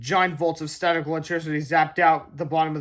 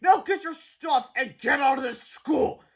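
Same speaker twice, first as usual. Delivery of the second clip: stern principal; 9 semitones higher, slower than usual. Acted. Principal expels boys.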